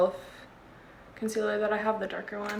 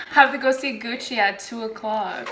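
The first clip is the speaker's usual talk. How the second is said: laughing echo; 7 dB louder than usual. Real, not acted.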